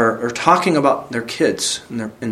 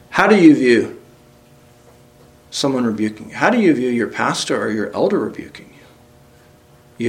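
hushed question; 3 semitones lower than usual. Real, not acted. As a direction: lean in and whisper it. Pastor presses the question.

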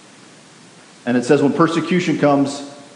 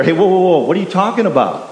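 raised, higher-pitched objection; bold pushback; 4 semitones higher, faster than usual. Acted. Believer pushing back at mockers.

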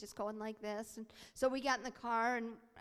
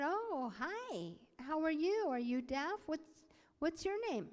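higher-pitched, lilting hello; acted friendly greeting; 5 semitones higher than usual. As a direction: greet a new child with careful friendliness. Himself greeting deaf boy hesitantly.

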